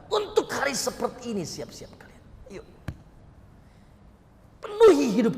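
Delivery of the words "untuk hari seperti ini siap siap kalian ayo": hushed warning. Real, not acted. Warning listeners to be ready.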